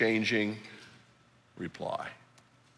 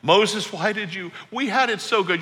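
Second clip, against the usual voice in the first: higher, louder whiny complaint; hammed-up whining crowd; whining Israelites; 7 semitones higher, 4 dB louder than usual. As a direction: whine at Moses like spoiled complainers. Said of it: "And they whine".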